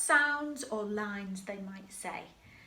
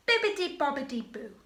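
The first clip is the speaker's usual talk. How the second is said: quick, higher sing-song magic words; fairy magic call; 5 semitones higher, 4 dB louder, faster than usual. Shown as a demonstration. Teacher models the fairy's call for the class, quick and bright. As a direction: sprinkle the words like fairy dust. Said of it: "you are going to say bibbidi bobbidi boo".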